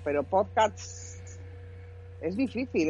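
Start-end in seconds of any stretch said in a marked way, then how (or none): 0.0-1.2 "podcast" said slowly, leaning on the TS cluster; slow careful podcast. Shown as a demonstration. Showing a friend how hard it is to say, slow and careful. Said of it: "decir podcast es fácil".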